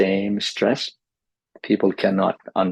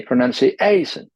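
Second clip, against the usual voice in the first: "pronunciation" with the AY syllable exaggerated; overdone stress; 5 semitones higher, 3 dB louder than usual. Shown as a demonstration. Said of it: "So overdo it in the beginning".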